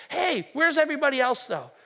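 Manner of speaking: where did they go; puzzled Jesus. Acted. Jesus asks the returning man about the others, bewildered. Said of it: "and he says".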